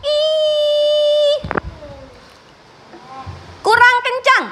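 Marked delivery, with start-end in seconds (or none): 0.1-1.4 long sung I, higher, lips spread; smiling I. Shown as a demonstration. Teacher models the I sound for the class. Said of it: "akan keluar huruf I".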